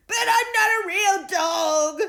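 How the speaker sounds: high, loud, slow dog cry. A narrator's reading. Dog crying out to Davina, distressed. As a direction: protest in distress. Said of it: "cried Bennett".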